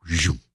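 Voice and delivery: quick imitated zoom; whoosh sound. Meditator describing when it was just like that, quick whoosh. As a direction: mimic something suddenly whizzing open. Imitates sudden unfurling of attention.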